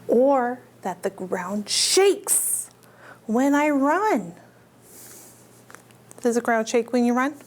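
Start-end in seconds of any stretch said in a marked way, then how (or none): 0.1-4.4 slow, heavy, drawn-out T. rex; slow dinosaur voice. Acted. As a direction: stretch every word like big stomping steps. T. rex describes shaking ground.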